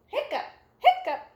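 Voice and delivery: quick high squeaky hiccups; cartoon kitty hiccups; acted hiccups. Pete hiccups in story.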